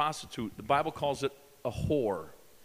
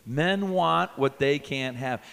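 slow, a bit louder chant; repeat it louder; 4 dB louder, slower than usual. Shown as a demonstration. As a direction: say it back with the crowd. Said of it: "Say that with me".

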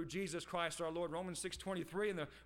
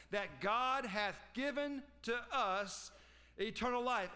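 "given" picked out with emphasis; stress on GIVEN; 2 semitones higher, slower than usual. Shown as a demonstration. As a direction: lean on the word "given". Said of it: "Emphasis on the word given there".

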